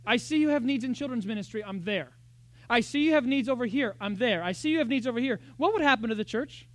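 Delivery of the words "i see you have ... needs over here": lightly voiced eager helper, a touch louder; cheerful can-do volunteer. Newcomer offering help at church, lightly eager. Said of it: "someone came in and said".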